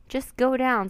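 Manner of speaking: urgent. A narrator's reading. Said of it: "said Jack".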